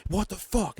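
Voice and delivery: high, exasperated imitation; high-pitched retold outburst; mock pissed-off. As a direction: act out fed-up anger without shouting. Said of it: "he's pissed".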